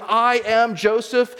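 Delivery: high, slow, loud declaration; loud weeping cry. Retold or imitated. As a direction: cry it out as a retold outburst. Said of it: "he just weeps so loud".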